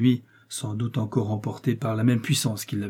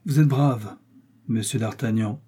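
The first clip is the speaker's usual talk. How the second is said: raised, louder voice of a commanding cardinal; authoritative cardinal voice, pitched up; 3 dB louder than usual. Acted. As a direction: speak down to the young man as the cardinal. Cardinal continues speaking.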